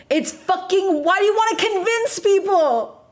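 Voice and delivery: high-pitched exasperated rant; exasperated outburst. Real, not acted. Ranting about men losing interest once she's willing, exasperated. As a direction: let the exasperation climb high.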